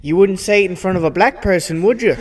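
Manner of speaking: lightly put-on Australian accent; upset Australian. Host as upset Australian challenges his co-hosts, mild Australian accent. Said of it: "upset Australian".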